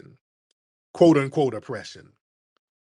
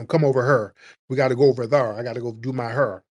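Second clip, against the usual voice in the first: imitating a Saint Louis accent with an intrusive R on "her"; mock Saint Louis accent, "over her" with a hard R; faster than usual. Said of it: "They talk like that in Saint Louis".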